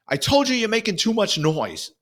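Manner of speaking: high-pitched imitation of a woman's complaint; woman yelling. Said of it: "you hear a woman's voice yell".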